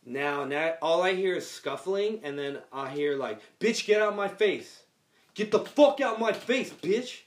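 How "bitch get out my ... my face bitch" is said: shouted curse at the mom; angry yell. Retold or imitated. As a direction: yell it in her face. Sean cursing at parent.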